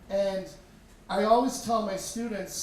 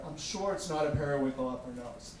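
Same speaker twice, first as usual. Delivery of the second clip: calm, placating nurse; 5 semitones lower than usual. Retold or imitated. Nurse calming frantic father.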